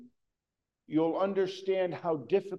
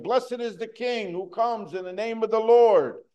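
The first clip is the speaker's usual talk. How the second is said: raised, louder festive cry; crowd acclaim; 4 semitones higher, 4 dB louder than usual. Retold or imitated. Preacher voicing the crowd hailing the king, loud joyful cry. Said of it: "He heard all those people yelling that out".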